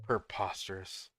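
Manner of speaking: low, soft, slow British aside; British impression. Friend still repeating the joke, quiet British impression. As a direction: savor it quietly in a mock-British accent. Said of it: "some more British impression".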